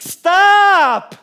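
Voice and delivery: hammed-up irritated parent; a fed-up parent's mock outburst; mock exasperated parent. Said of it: "I get sick of my kids asking".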